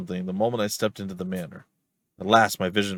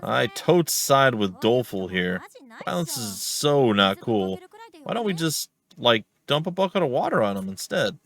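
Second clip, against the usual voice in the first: put-on slangy teen; 3 semitones higher than usual. Voices a slangy game character.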